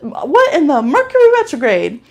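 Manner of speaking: mock outrage at the phone hanging up; outraged disbelief. Retelling rude hang-up, exasperated.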